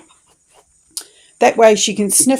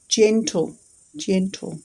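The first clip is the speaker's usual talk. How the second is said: gentle tone; slower than usual. Shown as a demonstration. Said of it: "we're gonna say it in a gentle tone".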